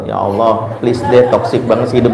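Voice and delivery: mock Jaksel-slang prayer, laughing; lightly hammed-up Jaksel slang complaint. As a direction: pray like a trendy South Jakarta kid. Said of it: "bahasa anak Jaksel".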